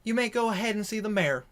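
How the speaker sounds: receptionist. Acted. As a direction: politely wave them through. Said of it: "she goes".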